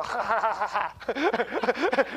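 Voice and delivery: staccato mock child's laugh; imitated baby giggle. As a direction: chuckle like a tickled little girl. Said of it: "and she'd go".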